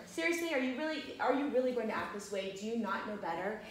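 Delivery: high, incredulous mock scolding; exasperated scolding. Scolding the adult students, mock exasperated. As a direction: talk down to them like naughty kids. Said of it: "that's how I wanted to respond".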